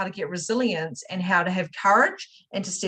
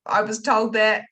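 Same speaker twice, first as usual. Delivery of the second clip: retold dismay, higher and louder; mock panic at own words; alarmed realisation; 4 semitones higher, 5 dB louder than usual. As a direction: act out the sudden oh-no moment. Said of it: "And I went".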